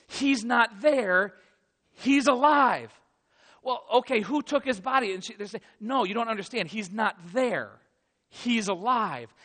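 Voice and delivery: loud, drawn-out announcement; joyful and insistent, slowing every word; slow, emphatic insistence. Acted. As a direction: spell it out for the doubters. Women repeating the news.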